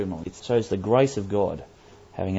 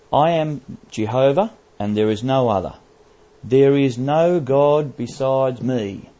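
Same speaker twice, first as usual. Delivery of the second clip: "I am Jehovah" raised and loud, then "no God" slow and weighty; emphatic scripture reading; 4 semitones higher, 6 dB louder than usual. Real, not acted. Preacher reading God's words to the congregation, most emphatic. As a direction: ring out "There is no God besides me", slow and loud. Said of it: "It's most emphatic".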